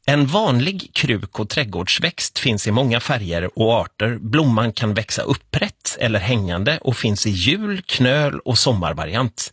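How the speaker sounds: slow, careful quiz read; radio quiz host reading; quiz question read. Acted. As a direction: read the question clearly to the caller. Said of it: "Här kommer frågan".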